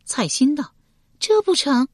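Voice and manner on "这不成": firm refusal. A narrator's reading. Female character voice.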